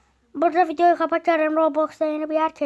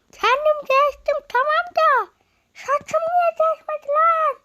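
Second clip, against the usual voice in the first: exasperated disbelief; 11 semitones higher, 4 dB louder than usual. Real, not acted. To viewers about his unchanged hair: high incredulous whine. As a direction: stretch it out in outrage. Hair didn't change with avatar.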